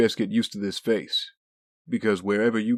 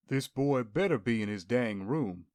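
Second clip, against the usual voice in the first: muttering to himself; 6 dB quieter than usual. Acted. Muttering to self after calling Oliver.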